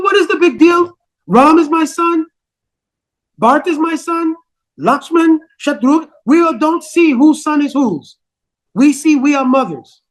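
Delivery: carefree queen. Acted. Kaikeyi brushes off worry.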